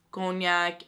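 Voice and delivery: cognac said the Armenian way, nasal "cognac" with "kon-yak"; Armenian accent. Real, not acted. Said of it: "I said that in an, in an Armenian accent".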